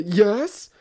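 daughter's yes. Retold or imitated. Daughter answers in the dialogue.

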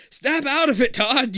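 high, loud commanding shout; ordering. A narrator's reading. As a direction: bark the order. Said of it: "you order him".

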